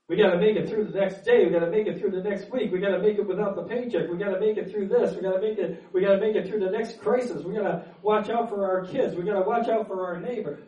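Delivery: fast, driving list of worries; preacher getting carried away; worked up. Real, not acted. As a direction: rattle through the worries. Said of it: "there I go again. Getting all worked up".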